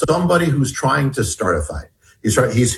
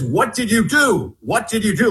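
mild mock shout, pitched higher; raised-pitch retold outburst; 6 semitones higher than usual. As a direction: imitate his accusing shout without much volume. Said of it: "then he starts shouting".

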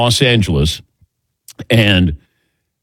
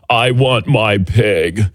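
slow, drawn-out Cage line; Nicolas Cage impression; slower than usual. Shown as a demonstration. Host repeating his Nicolas Cage impression on air, slow and drawn out. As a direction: drag it out slowly like Nicolas Cage. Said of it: "my Nicolas Cage impersonation".

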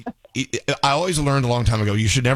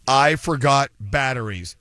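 slow ad line; slower than usual. Acted. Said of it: "the three scariest words".

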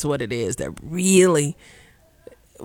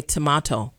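"tomato" said the British way, tuh-MAH-toe; 4 semitones lower, 3 dB quieter than usual. Shown as a demonstration. Host mocks her mother's correction, British "tomato". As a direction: say "tomato" in a light British twang, ah in the middle. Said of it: "go back to my British twang".

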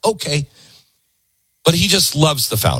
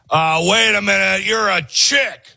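mock official; 6 semitones higher than usual. Host voicing a clerk questioning a woman voter, incredulous. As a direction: play a shocked old-time clerk.

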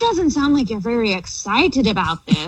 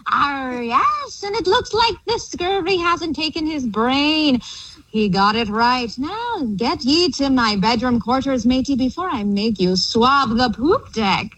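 pirate voice. Pretend. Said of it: "the theme of talking like a pirate".

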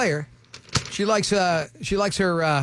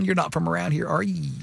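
put-on Southern accent. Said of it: "what I used to get".

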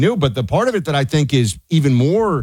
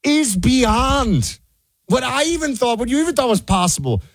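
indignant rant; 8 semitones higher than usual. Real, not acted. Indignant rant about Fauci.

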